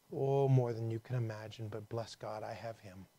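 lightly voiced ailing sister; a hint of frailty, trailing down; frail woman's voice. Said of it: "in her frail voice".

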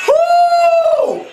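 loud, very high "whoo"; piercing falsetto whoop of shock. Real, not acted. Reacting to the move.

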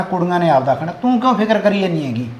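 soft chuckle through the words; husband chuckling to calm his fretting wife; laughing. Acted. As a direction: laugh off her worry gently. Husband teasing his worried wife.

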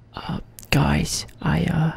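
breathy hushed whisper. Pretend. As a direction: whisper so the intruders can't hear. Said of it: "I have to whisper".

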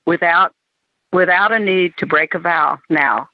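measured recital with pauses between phrases; poem reading. Acted. Poet reading a short love poem to the group, measured recital. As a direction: read it as verse, pausing after each phrase. Reads own poem aloud.

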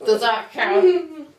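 slurred like a numb mouth; numb from the dentist. Real, not acted. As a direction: talk as if after the dentist.

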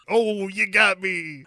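high, sheepish busted voice; caught guy voice. Retold or imitated. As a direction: play it caught red-handed.

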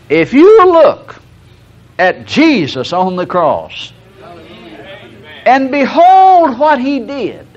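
preaching at full force. Acted. Preaching climax.

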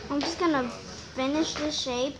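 put-on southern accent. Apologising to viewers for the odd house, mock Southern accent. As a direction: play at a folksy Southern accent. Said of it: "In my southern accent".

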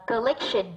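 collection stressed on "lec"; second-syllable stress. Shown as a demonstration. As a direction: lean on the middle syllable of collection. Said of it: "là âm hai". (nhấn âm tiết hai của collection)

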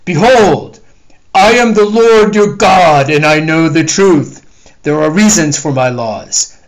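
loud, booming divine judgment; wrathful God. Acted. The Lord condemning the lying dog, booming anger. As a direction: thunder judgment down on the liar.

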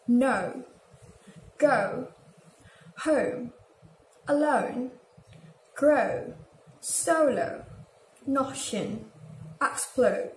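each O in "No, go, home" said as a two-sound glide; long O. Shown as a demonstration. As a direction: model "grow" and "solo" with a British long O, word by word. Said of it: "a combination of two sounds".

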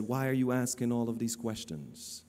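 low, level puzzled question; wondering. Retold or imitated. Cashier puzzled by preacher's many questions, retold wondering.

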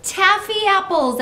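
high, loud, drawn-out cheer; excited group shout. A narrator's reading. Children guessing what is in the pot, high loud shout. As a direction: shout it slowly with delight. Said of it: "everybody, shouted".

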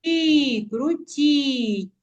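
крутій with тій drawn out; stretched final syllable of крутій; stress on second syllable. Shown as a demonstration. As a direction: lean on тій each time in крутій. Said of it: "вимовляємо з більшою силою голосу".

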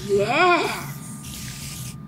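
long, drawn-out sinister answer; throat-straining villain voice; creepy voice. Acted. Assassin confessing to the hero, creepy voice. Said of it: "I'm using my creepy voice for this".

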